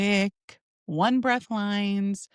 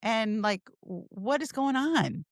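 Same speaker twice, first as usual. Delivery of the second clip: 1 bubbly friend. Shown as a demonstration. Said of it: "I'd be like".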